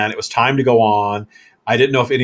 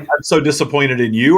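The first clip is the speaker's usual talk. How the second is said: performed disappointment; 2 semitones higher, 4 dB louder than usual. Pretend. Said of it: "Go, David".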